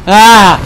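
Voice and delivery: loud, high cry of pain; pained yell. Acted. Player burning in the volcano, pained yell. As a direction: yelp as if burned.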